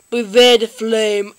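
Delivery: low mock-menacing imitation; hammed-up low threat; Charmander. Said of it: "you copy them very much".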